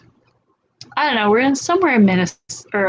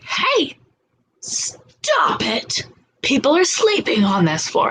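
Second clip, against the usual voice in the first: imitated stern telling-off; mock-scary scolding at contained volume; big scary voice; 4 semitones higher than usual. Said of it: "I do my big, scary, loud voice".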